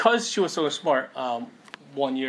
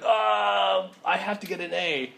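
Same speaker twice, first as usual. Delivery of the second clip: drawn-out, higher fretting; mock distress; 3 semitones higher, slower than usual. Believer striving to please God, mock distress. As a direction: fret like an overworked student. Acts out anxious striving for grades.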